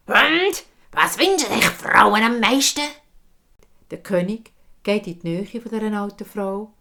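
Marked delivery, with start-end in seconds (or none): 0.1-2.9 loud, high call from above. Acted. Old woman calling from the oak, loud. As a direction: call down from the tree. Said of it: "ruft's von der Eiche".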